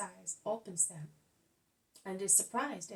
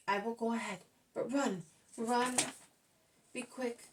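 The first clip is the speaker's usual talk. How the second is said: urgent; 3 semitones higher, 5 dB louder than usual. Acted. Old man urging haste.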